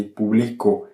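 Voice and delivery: publico with BLI carrying the weight; stress on middle syllable. Shown as a demonstration. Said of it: "ça correspond à la règle générale de l'accentuation".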